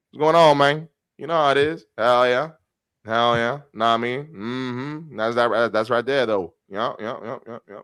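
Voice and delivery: casual, put-on Black American accent. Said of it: "then I have my black accent".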